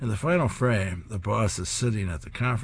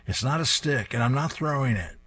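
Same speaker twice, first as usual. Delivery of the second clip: higher, curt not-amused reply; annoyed retort; 5 semitones higher than usual. Acted. Unamused man refusing the playful dog, higher and curt. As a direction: shut the dog down flatly.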